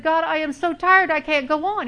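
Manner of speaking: retold shout at God. Mother of three little boys yelling at God, worn out. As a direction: shout it out as if at the end of your rope. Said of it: "having a shouting match with God".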